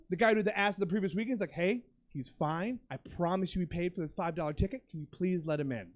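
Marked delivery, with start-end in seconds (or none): 1.5-5.9 lower, softer voice vouching for a friend; quietly smooth it over, pitched low; calm pleading. Retold or imitated. Friend vouching to the ticket lady, calm pleading.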